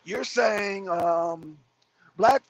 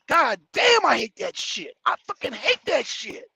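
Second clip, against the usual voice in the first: exasperated outburst; 2 semitones higher than usual. Real, not acted. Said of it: "exasperated outburst".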